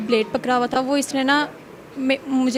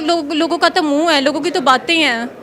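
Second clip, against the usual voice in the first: louder, offended rebuttal; indignant denial; 4 dB louder than usual. Real, not acted. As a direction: push back at a scandalous accusation. Denies affair rumour when accused. (नाराज़गी भरा इनकार)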